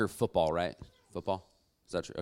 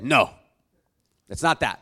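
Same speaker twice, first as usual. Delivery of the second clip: loud mock French refusal; badly faked French, curt and forceful; bad French accent; 10 dB louder than usual. Lounge attendant refusing to take payment, bad French accent. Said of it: "This is a really bad French accent".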